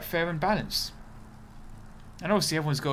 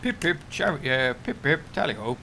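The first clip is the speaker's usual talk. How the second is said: mock British accent. Streamer playing up British stereotypes, mock British accent. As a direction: chirp it as a caricature British accent. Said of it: "I'm not very good at accents".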